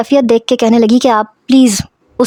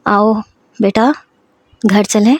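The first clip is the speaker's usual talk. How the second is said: lovingly. Acted. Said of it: "بڑے پیار سے کہہ رہے تھے".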